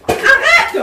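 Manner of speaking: high, sudden real cry to stop; urgent command. Real, not acted. Someone in a fight demanding it stop, urgent command. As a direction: call out sharply to halt it.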